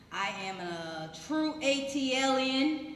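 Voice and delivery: loud, high proud declaration; proudly claiming Atlanta roots. Real, not acted. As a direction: announce it with pride. Proud introduction of herself.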